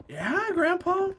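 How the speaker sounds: high, slow indulgent agreement; humoring Grandpa. Retold or imitated. Grandchild placating angry grandfather, high slow humoring. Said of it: "So you just had to be like".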